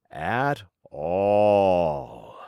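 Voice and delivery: low crying voice, fading; despairing whimper. A narrator's reading. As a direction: nearly give up. Richard slowing, nearly stuck.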